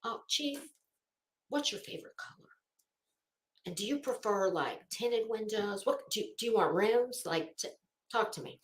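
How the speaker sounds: soft, fawning mock voice to the chief; butter up the chief, hushed; quietly fawning over the chief; mock sucking up. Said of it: "I'd have been like".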